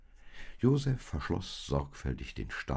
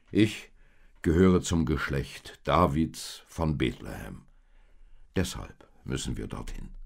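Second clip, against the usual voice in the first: lightly voiced Josef, a bit louder, explaining the census; 6 dB louder than usual. Josef explains to Maria why they must travel, lightly voiced. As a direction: patiently explain the journey to your wife. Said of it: "erklärte Josef".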